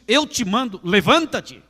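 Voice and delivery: high, loud command; voice of authority. Acted. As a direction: bark the order with full authority. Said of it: "ó que autoridade". (ordem alta e cheia de autoridade)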